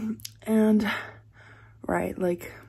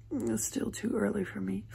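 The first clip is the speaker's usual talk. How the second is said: whispering; 6 dB quieter than usual. Real, not acted. Early morning, sleepy.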